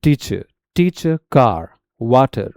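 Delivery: टीचर, कार, वाटर ending in a schwa, no r; British silent R. Shown as a demonstration. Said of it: "British English में जो आर होता है silent". (टीचर, कार, वाटर में R silent)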